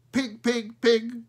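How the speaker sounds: high, loud crow squawk of pig; a crow cawing pig pig pig, high and loud; crow cry. Acted. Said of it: "cried Smoky".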